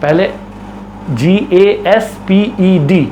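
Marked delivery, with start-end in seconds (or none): 1.1-3.0 spelling letter by letter. Shown as a demonstration. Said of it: "ऐसे तोड़ तोड़ के".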